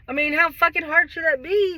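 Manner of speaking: exasperated rant about marriage; frustrated outburst. Real, not acted. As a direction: vent it, fed up and loud.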